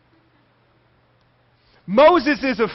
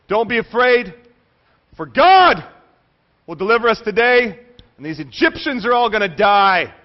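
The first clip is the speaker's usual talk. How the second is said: loud, rousing war speech; 7 dB louder than usual. Acted. Moses rousing the people against the Egyptians, loud and defiant. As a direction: fire them up before the battle. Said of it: "He does the whole Braveheart speech".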